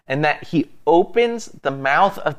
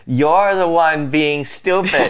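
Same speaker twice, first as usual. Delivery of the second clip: higher, mock-scolding donkey; sassy donkey; 4 semitones higher than usual. Donkey scolding its foolish rider, playful sass. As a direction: let the donkey tell him off.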